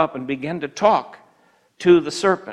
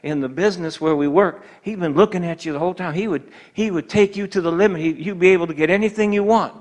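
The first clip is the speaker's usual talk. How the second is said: tempting coworker; 2 semitones higher than usual. Retold or imitated. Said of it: "And they start talking to you".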